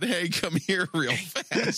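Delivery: slow creepy voice from the dark; dark whisper behind you. Retold or imitated. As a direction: lure them in, slow and eerie. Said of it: "Said a voice from the darkness".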